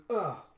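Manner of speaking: acted hit reaction; pained grunt. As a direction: grunt as if punched. Grunt as punch lands.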